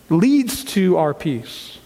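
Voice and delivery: "leads to our peace" drawn out slowly; slow emphasis. Acted. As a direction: linger on "leads". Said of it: "I feel it".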